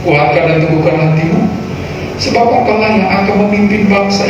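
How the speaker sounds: solemn Bible reading over music; scripture reading. Acted. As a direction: read scripture with weight. Reads scripture aloud. (pembacaan Alkitab yang khidmat)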